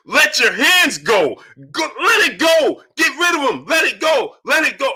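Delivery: high, slow yelling that eases off at the end; screaming at the TV. Retold or imitated. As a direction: shout at the fighter through the screen. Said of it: "I'm screaming at the T V".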